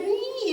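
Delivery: put-on small high baby whine "으이"; baby whimper. Lecturer imitating a fussing baby, a high whine. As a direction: mimic a fussy baby's whine. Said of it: "이러고만 있는데".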